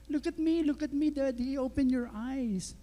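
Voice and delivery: put-on high-pitched little-girl pestering; insistent child's plea, slowing at the end; pleading child. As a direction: imitate a daughter coaxing sleeping Dad awake. Daughter rousing dad who feigns sleep.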